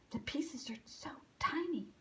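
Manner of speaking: soft unvoiced whisper. Alice whispering to Alvin over the tiny slices. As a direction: breathe it out worried, no voice. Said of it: "Alice whispered".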